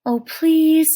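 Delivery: put-on boy begging the Indian; pleading boy. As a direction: beg like a child.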